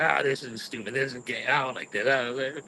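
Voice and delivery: low, sour mutter; grumpy muttering. Retold or imitated. At the park entrance, a low grumpy mutter. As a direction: mutter it like you're dragged along. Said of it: "And I'm all salty".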